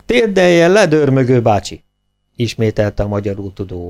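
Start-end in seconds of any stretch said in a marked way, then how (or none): 0.1-1.8 repeated order. A narrator's reading. Interpreter repeats officer's order.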